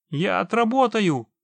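high, loud, eager vow; fervent promise. A narrator's reading. Man offers the witcher labour for payment, fervent. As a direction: promise it with pleading heat. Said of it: "горячо пообещал живой".

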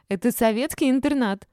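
high, loud protest; indignant squeal. A narrator's reading. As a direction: squeal back at the accusation. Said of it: "заверещала Олечка".

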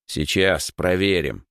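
slow, mildly grumpy reply; grumbling. Acted. Rower promises to check the hull, grumbling. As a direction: grumble it out slowly. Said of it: "проворчал Егор".

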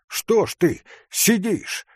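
high, impatient challenge; mild shout. A narrator's reading. Hunter shouts at the sitting forester, impatient. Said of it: "крикнул охотник на лесника".

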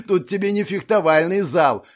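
high, loud taunting; mocking laughter. A narrator's reading. Hunter taunting Ashley, laughing. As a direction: taunt him through a laugh. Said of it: "расхохотался охотник".

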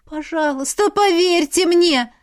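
high, loud, slow plea; imploring. A narrator's reading. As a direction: beg the official to believe you. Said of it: "взмолилась я".

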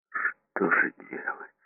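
slow, breathless whisper of despair; desperate whisper. Acted. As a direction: barely voice it, lost and slow. Repeated desperate question.

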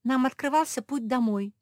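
stamping angry. A narrator's reading. Josie stamps at Mafi, angry scolding. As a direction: scold her hard. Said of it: "затопала Жози".

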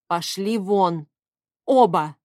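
slow, very loud shout; yelling. A narrator's reading. Heroine screams at father and son to get out, loud and slow. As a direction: throw them out at full voice. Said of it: "заорала я".

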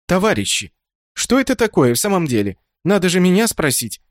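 high, imploring plea; pleading. A narrator's reading. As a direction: beg them to ask you first. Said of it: "взмолилась".

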